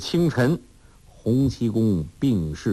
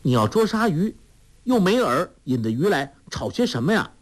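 put-on young girl's raised voice, annoyed; Huang Rong frowning; 7 semitones higher than usual. A narrator's reading. 黄蓉皱眉责怪老顽童胡闹，高声不耐烦. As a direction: scold him like a vexed girl. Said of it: "黄蓉皱着眉说".

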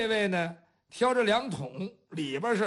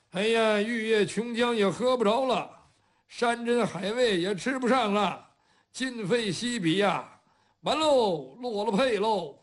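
lamenting. Acted. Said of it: "嘴里边还叨念".

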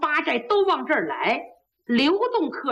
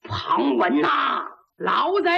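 put-on slow, stretched-out cry at the old villain; drawn-out yell; 3 semitones lower, slower than usual. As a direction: drag the name out in defiance. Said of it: "小焦玉还喊呢".

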